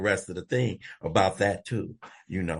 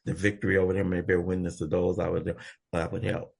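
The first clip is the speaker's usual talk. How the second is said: reciting a prayer; 3 semitones lower, faster than usual. Shown as a demonstration. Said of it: "we say".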